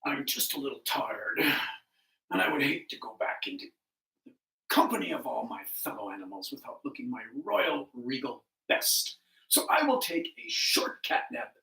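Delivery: low, unhurried tired king of beasts; weary lion. Acted. Lion tells himself he needs a nap, low and weary.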